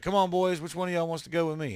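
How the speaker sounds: loud, high call across a yard; calling cats over. Retold or imitated. Man calling out to the stray cats in a yard, loud and high. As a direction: raise the voice to coax a bunch of cats.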